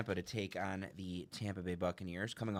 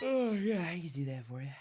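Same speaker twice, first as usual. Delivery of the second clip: laughing; 8 semitones higher than usual. Real, not acted. Amused reply.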